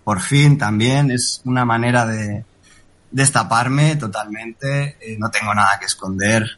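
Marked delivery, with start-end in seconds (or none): 0.0-5.0 slow, deliberate real voice; slow motion. Real, not acted. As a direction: draw each word out slowly. Reveals his real voice.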